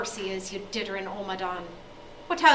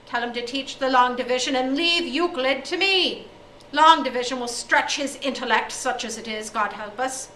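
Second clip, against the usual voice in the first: loud angry rant; 3 semitones higher, 9 dB louder than usual. Acted. O'Day rants at headmaster.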